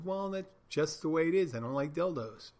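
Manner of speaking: a lightly voiced clerk shrugging it off; matter-of-fact shrug. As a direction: brush it off as obvious. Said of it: "And he goes".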